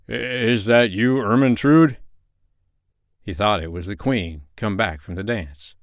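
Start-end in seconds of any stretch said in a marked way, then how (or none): 0.1-2.0 slow, drowsy half-awake voice; just woken, slow and drowsy; sleepy. Acted. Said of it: "said sleepily".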